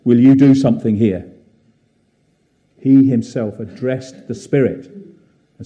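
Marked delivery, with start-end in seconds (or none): 0.0-1.3 louder, acted-out plea to God; mock prayer plea. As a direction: imitate someone praying aloud for help. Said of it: "fall to his knees and pray".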